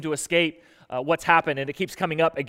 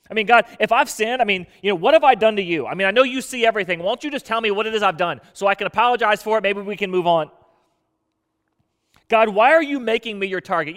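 higher and louder, pleading with God in protest; anguished protest; 4 semitones higher, 5 dB louder than usual. Retold or imitated. Preacher voicing Job's protest to God, raised anguished plea. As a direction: press God for an answer, voice raised.

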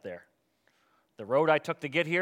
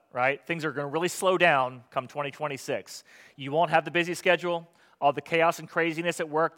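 sarcastic; 3 semitones higher, 4 dB louder than usual. Acted. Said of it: "overly sarcastic".

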